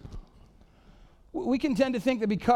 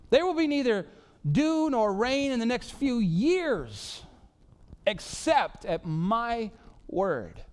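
bold prophet; 4 semitones higher, slower than usual. Retold or imitated. Elijah's bold prophecy to Ahab.

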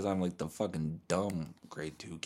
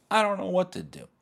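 high, louder comic wail; mock helplessness; 12 semitones higher, 5 dB louder than usual. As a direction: pitch it way up in mock panic. Mock panic over which voice.

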